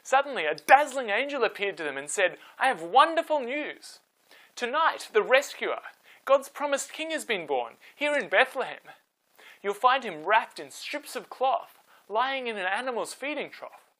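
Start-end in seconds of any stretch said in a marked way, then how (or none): 2.6-13.9 high, loud, bright with joy; joyful announcement. A narrator's reading. Angel announcing good news to shepherds, joyful and loud. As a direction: proclaim the good news with delight.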